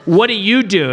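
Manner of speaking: low, bored mumble; mock bored hero. Host imitating Santa judging his date, low and bored. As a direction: sound unimpressed and low. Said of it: "he's like".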